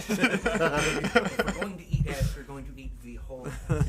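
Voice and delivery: loud joking declaration; excited. Acted. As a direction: hype it up for laughs.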